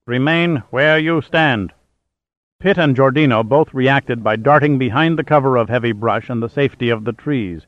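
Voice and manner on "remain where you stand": slow, slightly raised robotic call; electronic robot voice. Acted. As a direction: call out like a machine. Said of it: "a strange electronic voice called out".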